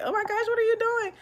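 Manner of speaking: high-pitched mock horror; retold grossed-out shock. Wife retelling seeing husband eat it with fufu, mock disgust. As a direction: squeal a retold, grossed-out reaction. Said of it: "I definitely was so grossed out".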